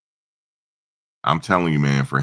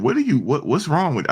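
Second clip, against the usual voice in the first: much higher, offended sputter; mock high indignant mother; 13 semitones higher than usual. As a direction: play the flustered mother, pitched way up.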